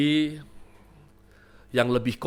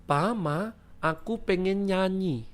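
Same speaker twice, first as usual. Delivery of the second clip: put-on higher, drawn-out model of a child's call; father demonstrating phrase; 6 semitones higher, slower than usual. Papa teaches Vio the code phrase, slow demonstration. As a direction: show the child how to say it, unshouted. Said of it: "bilang gini supaya papa langsung ngerti".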